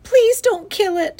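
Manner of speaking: high, loud, slow plea; sobbing plea. A narrator's reading. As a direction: plead like a distraught little girl. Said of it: "she sobbed".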